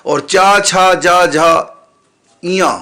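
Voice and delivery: चा छा जा झा इया, each syllable said separately; the cha row, letter by letter; letter recitation. Shown as a demonstration. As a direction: drill the cha row for a class. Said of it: "चवर के पीछे लिखा हुआ या".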